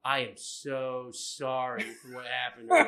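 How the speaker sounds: a hint of a sheepish teacher; apologetic teacher.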